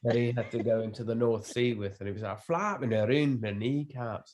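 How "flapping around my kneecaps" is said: slow mock Scottish accent, Billy Connolly style. Guest quoting a Billy Connolly sketch, light Scottish accent. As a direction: drag out a jokey Scottish accent. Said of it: "my go-to Scottish accent".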